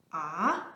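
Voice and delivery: "Ah" sweeping upward; second tone. Shown as a demonstration. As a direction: glide "Ah" up steadily. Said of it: "Ascending tone".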